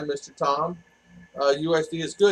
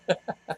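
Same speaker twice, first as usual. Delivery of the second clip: short laugh; 7 dB quieter than usual. Real, not acted. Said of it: "Oh, I'm laughing".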